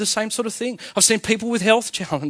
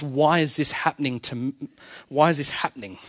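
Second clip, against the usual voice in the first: low, quick, unstressed WHY IS THIS HAPPENING; complaining why question; 3 semitones lower, 5 dB quieter than usual. Shown as a demonstration. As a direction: ask "why is this happening" as a grievance. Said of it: "I'll phrase it a different way".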